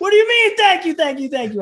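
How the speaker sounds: high, loud, laughing incredulity; thrilled laughing at a hero thanking him; laughing disbelief. Retold or imitated.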